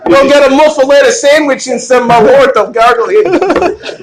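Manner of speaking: Chicago woman. Acted. Chicago woman giving orders, exaggerated twang. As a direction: keep up the mock Chicago woman. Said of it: "That's the Chicago woman".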